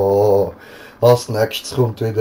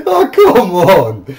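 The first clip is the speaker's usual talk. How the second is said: laughing; 10 semitones higher, 6 dB louder, slower than usual. Real, not acted. After losing challenge laughing.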